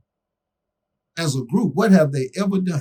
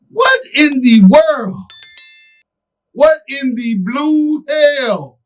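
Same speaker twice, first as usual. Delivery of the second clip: slow, drawn-out exasperated catchphrase, lightly done; The Rock; 5 semitones higher, much slower than usual. Retold or imitated. Host quoting a wrestler's catchphrase, slow mock outrage. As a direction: stretch each word out in mock disbelief. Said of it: "to quote The Rock".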